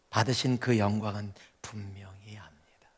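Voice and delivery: whispered, almost no voice; hushed confession. Real, not acted. Preacher to congregation, whispering his certainty. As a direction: drop to a breathy whisper of conviction. Preacher's quiet personal testimony.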